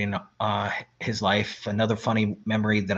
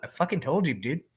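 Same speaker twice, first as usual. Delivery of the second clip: gloating told you so; 3 semitones higher than usual. Retold or imitated. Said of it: "I'm like".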